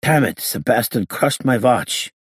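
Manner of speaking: put-on high, slow accented cursing; grumbling gangster. A narrator's reading. Freed gangster finding his broken watch, high slow grumble. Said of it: "he muttered".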